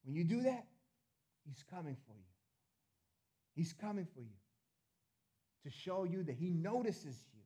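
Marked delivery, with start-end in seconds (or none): 1.4-2.2 dropped soft. Real, not acted. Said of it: "repeated line".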